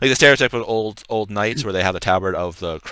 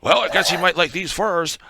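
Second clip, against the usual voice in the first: wry guard; 10 semitones higher than usual. Acted. Guard voiced, dry remark.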